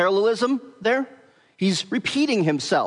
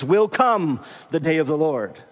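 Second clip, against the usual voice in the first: "Will come" fronted and stressed; word-order emphasis. Shown as a demonstration. Preacher showing the Greek word order, "Will come" stressed first. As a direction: put the weight on "Will come" at the start. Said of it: "So literally this reads".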